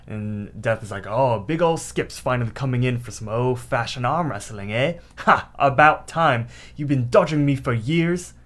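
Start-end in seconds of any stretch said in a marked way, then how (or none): 1.1-8.3 badly faked British accent. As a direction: attempt a rough British accent for the villain. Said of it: "No, he has British".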